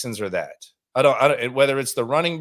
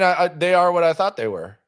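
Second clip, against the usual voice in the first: louder and higher, pounding the point; emphatic; 5 semitones higher, 4 dB louder than usual. Retold or imitated. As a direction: hammer the line like a rant. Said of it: "I won't bang the table like Dennis Green".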